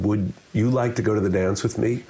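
"you" picked out as the key word; stress on YOU. Shown as a demonstration. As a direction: put the emphasis on "you". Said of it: "The emphasis on each word".

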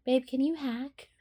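high-pitched begging to be taught; playful pleading. Acted. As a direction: plead like an eager partner. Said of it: "I'm gonna ask you that".

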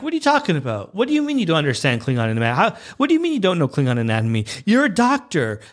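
a touch of exasperated disbelief; mock incredulous. Fan confronting McCoy over anatomy, incredulous.

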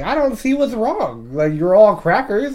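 high, slow mocking voice; mocking quote. Friend quoting a girl who calls them crackers, high mocking voice. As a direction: sneer it out in a put-on high voice. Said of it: "She was like".

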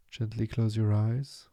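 measured meditation voice, long pauses between phrases; guided meditation. Acted. Meditation teacher easing listeners into stillness, calm guiding delivery. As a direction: guide them into calm, unhurried and spacious.

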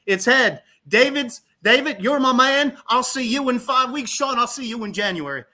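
high, loud put-on Tennessee voice; Ray Patterson, Southern accent. Director announcing the coin toss winner, Southern accent. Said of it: "Southern accent".

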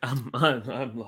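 quietly echoing I'm lost, low and soft; a flat, dropped-voice echo; mock deadpan. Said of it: "I was about to say maybe".

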